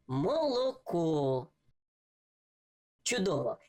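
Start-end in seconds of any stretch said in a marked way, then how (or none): 0.1-1.5 молоко said slowly, each syllable even; slow whole word. Shown as a demonstration. Teacher reading the finished word to a child, slow. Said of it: "і це слово буде".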